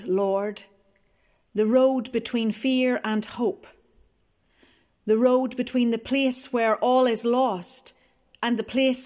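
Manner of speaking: measured, solemn liturgy read with long pauses; liturgical call to worship. Acted. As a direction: lead the congregation in worship, unhurried.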